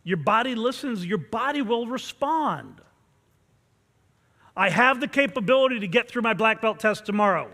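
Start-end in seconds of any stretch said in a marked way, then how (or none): 4.6-7.5 firm, loud declaration; intense incantation. Shown as a demonstration. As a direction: say it so the body listens. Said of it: "You have to say it so that your whole body listens".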